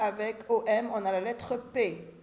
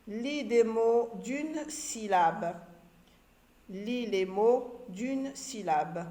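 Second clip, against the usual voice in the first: slow instruction. Shown as a demonstration. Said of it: "reading instructions slowly".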